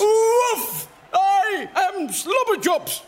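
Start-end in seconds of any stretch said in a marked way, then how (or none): 0.0-0.9 loud, high mock dog bark. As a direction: bark like a big Saint Bernard. Actor playing a Saint Bernard.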